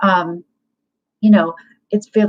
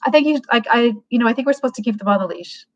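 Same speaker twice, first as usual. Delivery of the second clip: casual and friendly; 2 semitones higher than usual. Shown as a demonstration. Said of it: "enter into the spirit".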